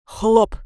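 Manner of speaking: хлоп burst out short and loud; ominous pop. Acted. Shadow ending its story with a loud ominous хлоп. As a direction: drop хлоп like a sinister bang. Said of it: "слишком зловещий хлоп".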